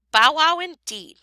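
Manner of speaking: high, loud sarcastic scold. A narrator's reading. Wife scolding her husband over the dog, sharp scold. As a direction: scold him with scorn. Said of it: "my wife scolded".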